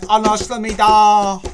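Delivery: loud, high, drawn-out mock squeal; imitated screaming girl. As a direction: mimic a screaming Korean gamer girl. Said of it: "girl screaming".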